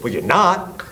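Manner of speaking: high-pitched indignant comeback; retold angry retort; cutting retort. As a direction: shut his excuse down.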